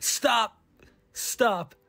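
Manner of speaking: mock halt. Film makers halting the movie, mock commanding call. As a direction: cut in firmly with two separate words.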